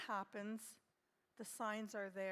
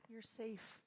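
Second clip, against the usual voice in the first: much softer, murmured comfort; hushed reassurance; 7 dB quieter than usual. Shown as a demonstration. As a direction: breathe it out gently to a child. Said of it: "Just how I would talk to my little noses".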